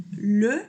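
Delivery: le with rounded lips; le said with the mouth in an O shape; le, boca en O; French le. Shown as a demonstration. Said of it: "Entonces hago E".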